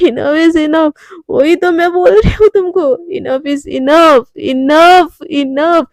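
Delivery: slow, drawn-out mocking enough; mocking drunk echo. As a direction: throw her own word back, stretched. Drunk Radhika mocks Devika's words.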